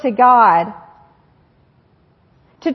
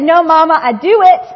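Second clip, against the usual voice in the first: put-on stubborn toddler; 3 semitones higher, 5 dB louder than usual. Toddler swatting his mother's hand away, loud and insistent. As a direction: push Mama away, I can do it. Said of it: "He said".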